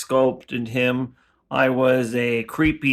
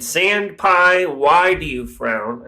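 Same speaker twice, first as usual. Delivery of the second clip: burrito's voice; 3 semitones higher, much slower than usual. Acted. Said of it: "he said".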